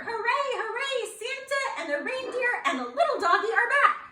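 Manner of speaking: high, loud cheering elves with a laugh; joyful little elves shouting hooray. Acted. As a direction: cheer like a crowd of excited elves. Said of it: "All the elves sang out a cheer".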